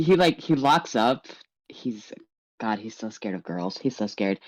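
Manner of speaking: normal talking voice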